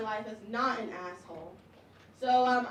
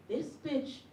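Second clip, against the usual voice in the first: slow gleeful hush; 5 dB quieter, slower than usual. Retold or imitated. Gleeful discovery.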